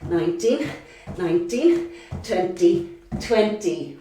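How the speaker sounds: counting while panting; breathless counting through the jumps; out of breath. Real, not acted. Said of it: "pardon me if I am panting".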